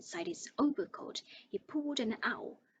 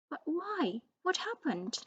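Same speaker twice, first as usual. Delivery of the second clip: urgent; 7 semitones higher than usual. Acted. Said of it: "Harry asked urgently".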